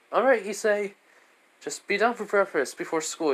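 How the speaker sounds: mom voice=63. Acted.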